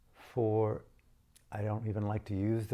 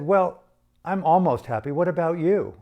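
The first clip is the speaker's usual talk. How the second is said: retold frank retort; 7 semitones higher, 10 dB louder than usual. His frank retort to the woman.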